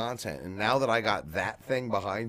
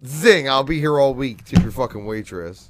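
loud, punchy stand-up sign-off; brash vaudeville comic; 4 semitones higher, 10 dB louder than usual. Pretend. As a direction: sell it like a cheesy club comic. Rimshot punchline comic patter.

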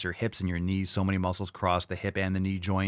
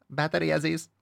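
movie villain impression; 9 semitones higher than usual. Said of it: "Remember from True Lies?".

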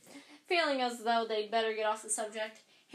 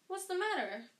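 alarmed; 8 semitones higher than usual. A narrator's reading. Harry alarmed question.

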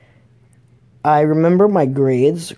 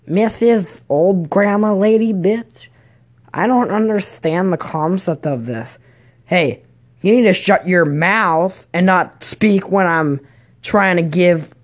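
lightly voiced cranky school aide, higher; hammed-up telling-off, a touch raised; mock scolding para; 4 semitones higher than usual. Para scolding a student in class, mock scolding. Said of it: "she yelled at me today".

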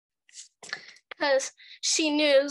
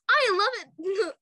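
slow mock drawl; 6 semitones higher, 4 dB louder, much slower than usual. Mocking covid-loving person.

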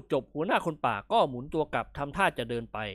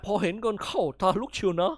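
louder barking at his men; loud scolding shout; 4 semitones higher, 6 dB louder than usual. Acted. Jungle chief scolds his greedy men with a loud shout. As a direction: snap at them to hide, loud. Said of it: "ร้องตวาดเสียงลั่น".

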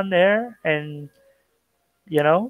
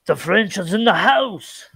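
lightly put-on French accent, higher pitched; bad French accent; 4 semitones higher than usual. Shown as a demonstration. Host greeting a friend from France, in a bad mock French accent. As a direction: try a clumsy, hammy French accent. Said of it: "That is my bad French accent".

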